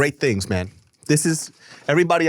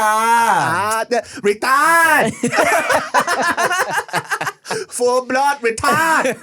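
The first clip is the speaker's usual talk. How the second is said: slow mocking laugh; 10 semitones higher, much slower than usual.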